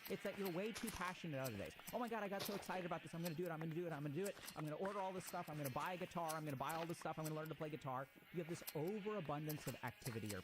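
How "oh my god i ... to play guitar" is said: excited. Retold or imitated. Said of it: "we get super excited about stuff".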